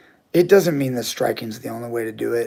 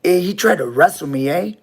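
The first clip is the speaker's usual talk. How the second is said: higher, louder mock Spanglish accent, "eh" tagged on; imitating Spanglish accent; 5 semitones higher, 3 dB louder than usual. Robber bragging in the getaway car, in a mock Spanglish accent. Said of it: "Spanish English, uh, accent".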